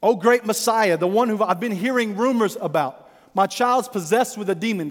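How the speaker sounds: lightly dramatized cry for help. Acted. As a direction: interrupt with a desperate mother's appeal. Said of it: "crying out, interrupting him".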